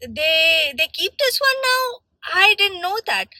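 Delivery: high, mock-surprised salesman voice. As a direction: play him as clueless and caught off guard. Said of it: "So he's like".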